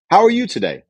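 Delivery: high, eager, overly friendly greeting; weak salesperson. Shown as a demonstration. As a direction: chirp it like a pushy salesman hoping to please. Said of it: "Here's a weak salesperson".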